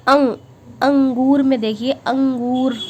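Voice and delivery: अंगूर with the अं pushed through the nose; nasal demo. Shown as a demonstration. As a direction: give अंगूर a clear nasal ang. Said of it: "नाक से निकलती है आवाज़".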